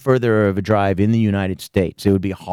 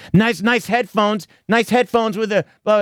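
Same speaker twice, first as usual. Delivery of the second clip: mock sneer; 8 semitones higher than usual. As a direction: drag out a lame insult mockingly. Mocking Aaron's comeback.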